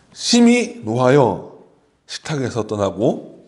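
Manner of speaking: slow, measured congregational reading; scripture reading. Real, not acted. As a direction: lead everyone through the verse, slowly. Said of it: "이 말씀 다 같이 한번 읽어보겠습니다". (다 함께 성경을 천천히 낭독하듯)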